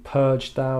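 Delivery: "Purge thou" with equal weight on both words; "Purge thou" said as two strong stresses; spondee, both stressed. Shown as a demonstration. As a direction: hit both "Purge" and "thou" hard and even. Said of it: "It's "Purge thou." Two stressed syllables".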